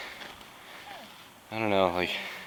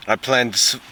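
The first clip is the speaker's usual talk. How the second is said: fake British accent; 2 semitones higher than usual. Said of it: "that fake British accent the whole time".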